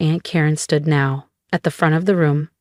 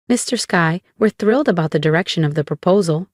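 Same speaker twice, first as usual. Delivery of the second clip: gushing. Acted. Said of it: "she gushed".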